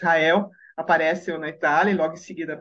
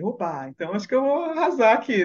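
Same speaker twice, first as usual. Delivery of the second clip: slightly higher, mildly excited self-talk; a touch of eager confidence; livelier, retold thought; 4 semitones higher than usual. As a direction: think aloud, perked up. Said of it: "fiquei já mais animada".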